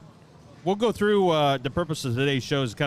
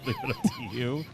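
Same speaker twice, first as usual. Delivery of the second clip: high shout through laughter; laughing; 4 dB quieter than usual. Real, not acted. Laughing hard.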